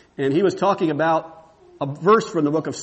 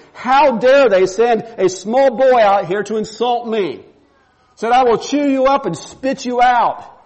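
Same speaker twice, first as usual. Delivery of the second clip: Goliath's mock rage; 5 semitones higher, 5 dB louder than usual. Preacher voicing Goliath threatening David with mock fury. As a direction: ham up an angry giant bellowing. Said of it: "Goliath is really upset and says".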